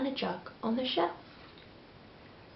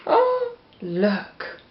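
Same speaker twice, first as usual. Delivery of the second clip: excited. Real, not acted. Pointing children to the picture.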